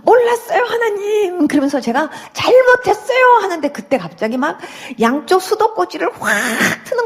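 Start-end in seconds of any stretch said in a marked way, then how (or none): 0.0-3.2 put-on higher, childlike tearful begging; child begging mum and dad, high and tearful. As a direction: plead like a small child to its parents. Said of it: "애기가 엄마 아빠한테 막 이렇게 비는 것처럼".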